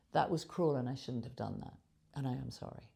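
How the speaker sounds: low, subdued apology; sincere apology. Shown as a demonstration. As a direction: own up quietly and earnestly. Models owning up and apologising.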